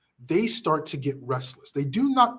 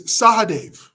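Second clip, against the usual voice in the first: loud, high shout of a name; 6 semitones higher, 8 dB louder, slower than usual. Acted. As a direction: bark the name across the hall. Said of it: "he shouts at Sahadev".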